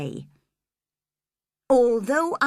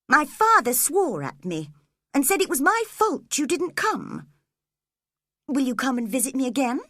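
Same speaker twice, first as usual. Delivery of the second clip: put-on sickly boy; 6 semitones higher than usual. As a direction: plead weakly like a feverish child. Linton speaking, petulant.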